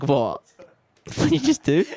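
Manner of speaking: high, sharp voice of a startled mum; mum's shocked reaction. Retold or imitated. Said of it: "then my mum was like".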